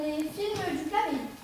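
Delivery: put-on slow, drawn-out Belgian accent. Fake Belgian producer naming his company, slow Belgian accent. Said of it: "je prends l'accent belge".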